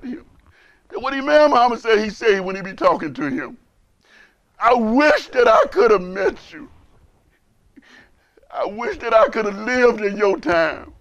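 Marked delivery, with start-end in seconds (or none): 4.6-10.9 fervent. Retold or imitated. Retold wish, preaching with fervor.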